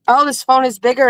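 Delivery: usual speaking voice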